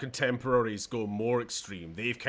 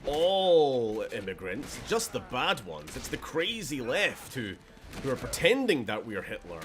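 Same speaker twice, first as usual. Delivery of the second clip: mock politician; 3 semitones higher, 5 dB louder than usual. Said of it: "pretending like".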